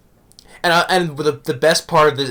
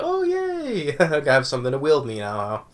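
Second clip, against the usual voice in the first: mock excited cheer; 4 dB quieter than usual. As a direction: gush it like a thrilled kid getting a toy. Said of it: "I was like".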